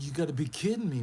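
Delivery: disbelief. Retold or imitated. Shocked reply to the gossip.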